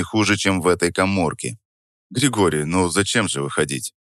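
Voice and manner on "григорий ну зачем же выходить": тихо и лениво-спокойно; скажи расслабленно, лениво; спокойно, с ленцой. Acted. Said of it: "произнёс я спокойно, даже с лёгкой линцой в голосе". (спокойно, с лёгкой ленцой в голосе)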